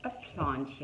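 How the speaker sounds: hamming up a shocked mother; mock horrified yell. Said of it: "yelled Mom in horror".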